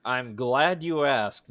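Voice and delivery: drawn-out knowing tease; slow smarmy tease. Acted. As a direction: savor each word, teasing. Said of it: "I don't like it when you say it that way".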